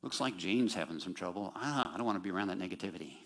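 fast, dismissive mock voice; sarcastic. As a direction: brush it off sarcastically. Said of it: "I'm being sarcastic".

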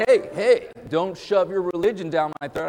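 playing the annoyed stranger in the store, half-joking; mock defensive objection. Stranger at the mall warding off the preacher, mock protest.

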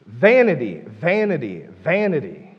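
each "Vanity" a separate stressed, falling cry, the first loudest; "Vanity" intoned with full weight, then repeated; emphatic repetition. Acted. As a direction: hammer "vanity" over and over, dropping each time. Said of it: "he says over and over again".

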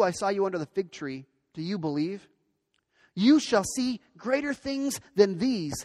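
measured Bible reading aloud; scripture reading. Acted. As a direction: read the passage out with deliberate phrasing. Reads the Bible passage aloud.

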